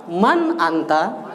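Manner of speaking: "man anta" slow, each word apart, rising at the end; question intonation model. Shown as a demonstration. Teacher modelling for the class to repeat, questioning tune. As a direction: slowly ask "man anta" in two separate words. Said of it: "intonasinya harus pas".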